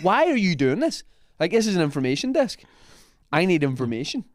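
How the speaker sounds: a hint of a baffled tourist pleading; mock exasperated plea. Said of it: "I said".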